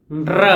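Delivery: isolated r sound; r sound demo. Shown as a demonstration. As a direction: tap out र slowly and clearly. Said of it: "for example".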